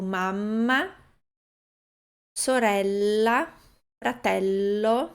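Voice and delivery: mamma, sorella, fratello with stretched double consonants; over-technical demo; lengthened doubles. Shown as a demonstration. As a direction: hold each double letter long. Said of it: "nenhum italiano ... fala assim".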